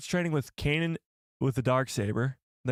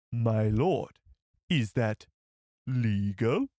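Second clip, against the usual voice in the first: lightly voiced alien aide, laughing; a hint of a nervous Neimoidian; Nute Gunray voice; 4 semitones lower, much slower than usual. Streamer answering a viewer's request, light laughing alien voice. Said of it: "Let's hear your best Newt Gunray".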